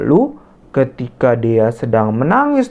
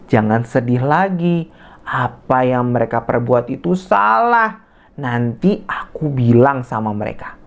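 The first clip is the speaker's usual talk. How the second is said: comforting friend. Acted. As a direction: soothe a crying friend. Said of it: "Dian berkata seperti ini kepada Dea". (menghibur dengan lembut)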